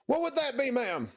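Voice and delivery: high, eager zealous knight; crusader voice. Acted. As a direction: ask like a devoted crusader. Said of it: "throw my Crusader voice out there".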